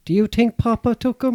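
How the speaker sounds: lightly voiced cartoon boy. Boy asks mother about stolen Christmas presents, lightly imitated. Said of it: "he goes to the mother".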